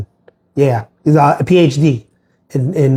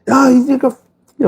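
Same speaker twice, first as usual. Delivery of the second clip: retold outburst; 11 semitones higher than usual. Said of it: "bull rage that day".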